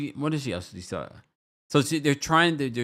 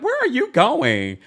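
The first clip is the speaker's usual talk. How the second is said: mock high call; 14 semitones higher, 7 dB louder, slower than usual. Adriana voiced calling after.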